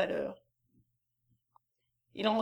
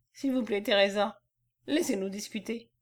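calm contrasting tone. Acted. Messner to Teresa after her husband's shout, calm. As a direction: ask her calmly to stay out. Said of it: "d'un ton qui contrastait avec celui de l'autre".

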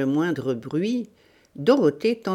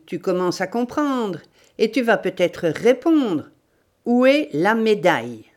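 raised voice, pressing interrogation; menacing demand; 4 semitones higher, 4 dB louder than usual. Acted. Bandit demanding the medal from his victim, menacing. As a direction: press the victim hard for an answer. Bandit threatens tortured woman.

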